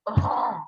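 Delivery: imitating a tired kid's mock groan, "Ugh"; a light, put-on sigh of a kid facing a hard test; retold sigh. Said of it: "And she sighs because it's so hard".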